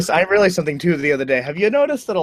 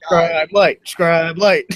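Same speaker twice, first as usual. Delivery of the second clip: laughing; 2 semitones higher, slower than usual. Real, not acted. Teasing a friend while laughing.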